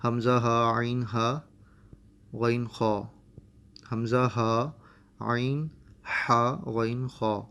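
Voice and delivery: clearly recited Arabic letter names. Shown as a demonstration. Teacher reciting the throat letters to the student. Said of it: "green colour کے letters آ رہے ہیں".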